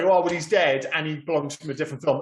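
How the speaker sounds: ordinary delivery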